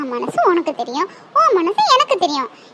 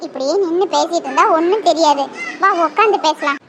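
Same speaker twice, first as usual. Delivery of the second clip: gentle coaxing; 3 semitones lower, 3 dB quieter than usual. Acted. Gentle coaxing to sit and talk.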